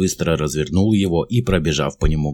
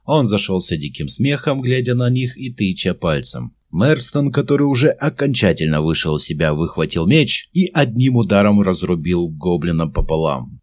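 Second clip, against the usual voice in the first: plain reading voice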